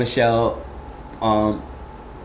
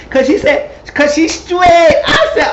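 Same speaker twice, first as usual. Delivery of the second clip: louder, higher excited telling; 6 dB louder than usual. Real, not acted. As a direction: build it up with glee.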